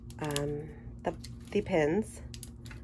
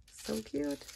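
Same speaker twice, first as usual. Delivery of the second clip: much higher, gushing squeal; excited squeal; 10 semitones higher, 7 dB quieter than usual. Real, not acted. Crafter gushing to viewers over a pop, squealed. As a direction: let it pop up high with delight.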